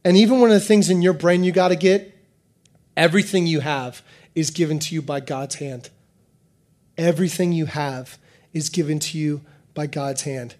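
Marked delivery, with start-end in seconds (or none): 3.0-5.9 soft repetition. Shown as a demonstration. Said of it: "repeated softly for emphasis". 7.0-10.5 soft repetition. Shown as a demonstration. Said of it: "repeated softly for emphasis".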